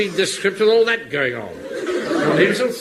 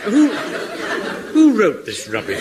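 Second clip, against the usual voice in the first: indignant outburst. Acted. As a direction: burst out in outrage at the script.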